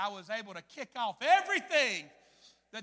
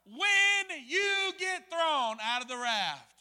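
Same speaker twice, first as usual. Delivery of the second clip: echo in mind; 5 semitones higher, 6 dB louder, much slower than usual. Retold or imitated. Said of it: "I hear an echo in my mind".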